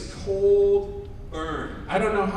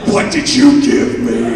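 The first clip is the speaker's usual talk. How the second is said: panicked shout right in his face; screaming at the nurse; 15 dB louder than usual. Retold or imitated. Patient screaming at nurse over the injection, loud panicked shout. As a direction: yell the question in a panic. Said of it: "screaming in his face".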